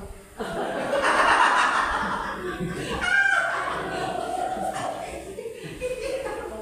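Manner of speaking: long loud laugh; long, high hearty laugh. Real, not acted. Big laugh after joke.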